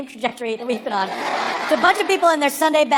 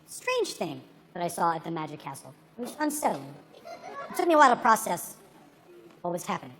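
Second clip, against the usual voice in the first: hushed eerie; 9 semitones lower, 8 dB quieter than usual. Acted. Eerie setup of strange story.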